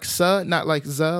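S sound in "sa", not "za"; careful pronunciation. Shown as a demonstration. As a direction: lay out "sa" against "za" plainly. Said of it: "enunciates on the po part".

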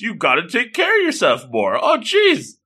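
high-pitched worried fussing; acted shock. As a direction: fret over someone in mock alarm. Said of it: "he's, he's shocked by all this".

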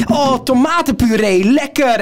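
high-pitched, dopey enthusiasm; imitated naive delight. Housemate mistaking juice for purée, mock naive delight. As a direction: mimic a clueless housemate's delight. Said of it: "toen zei hij zo van".

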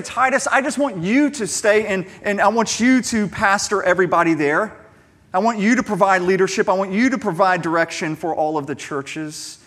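a hammed-up Paul begging Titus to rule alone; mock wrong version. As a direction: overdo the one-man-in-charge version. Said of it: "That, that's not what Paul says".

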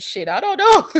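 laughing. Retold or imitated. Laughing at her own reply.

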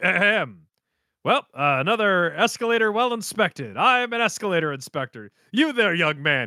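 mock-official inspector putting on a bit; Joseph. Joseph covering embarrassment before a crowd, mock-official bluff. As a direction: clear the throat, then bluff with pompous authority. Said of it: "hard committing to this bit".

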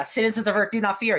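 booming arrogant alien overlord. Acted. Hero proclaims to the citizens.

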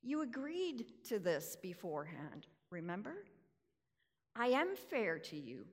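patient, tender reply; compassionate. Retold or imitated. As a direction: reassure the grumbler kindly. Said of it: "compassionately," he speaks".

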